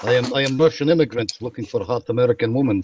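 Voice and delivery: bad Russian accent. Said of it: "bad Russian accent".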